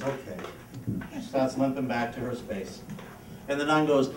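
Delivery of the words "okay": put-on meek little girl. Chastened girl answers meekly.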